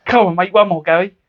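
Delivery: high, wheedling mock plea; spoiled kid. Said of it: "spoiled kid. You go".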